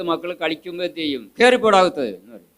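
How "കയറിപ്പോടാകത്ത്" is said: mock sharp scolding of the kids; a touch of an irritated parent; harsh scolding. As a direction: snap them indoors, half-acted. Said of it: "എന്ന് സൗമ്യമായിട്ട് പറയണം".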